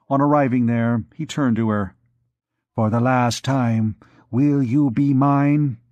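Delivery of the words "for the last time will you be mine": slow, lightly voiced menacing priest; last warning to the girl, slow; a hint of a menacing priest. Priest's final threat.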